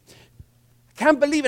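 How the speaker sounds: high, drawn-out disbelief; worked-up commander. Acted. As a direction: act out indignant disbelief, slowly. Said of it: "he's all worked up".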